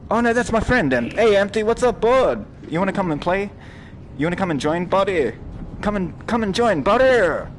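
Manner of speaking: high, loud, eager calling to a friend; shouting a happy invite; excited calling out. Real, not acted. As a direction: call your buddy over, all excited.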